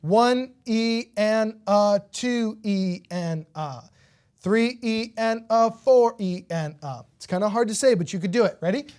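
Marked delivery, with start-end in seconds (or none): 0.0-7.0 each syllable of "One E and a" separate and evenly spaced; slow, deliberate "one, E, and, a" through all four beats; measured sixteenth-note count. Shown as a demonstration. Teacher teaching how we count sixteenths, syllables evenly separated. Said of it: "Remember, we count it".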